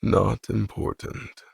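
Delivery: slow, quiet, flat echo; deadpan tone. Acted. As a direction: repeat it dry and unimpressed. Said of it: "He repeats in a deadpan tone".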